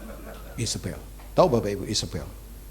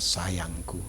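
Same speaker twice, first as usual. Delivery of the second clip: coaxing wife; 4 semitones lower, 7 dB quieter than usual. Retold or imitated. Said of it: "Isabel berkata".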